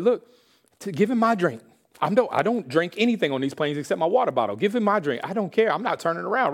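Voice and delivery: high-pitched exasperated plea; retold indignant protest. Passenger pleads to give away his drink, exasperated.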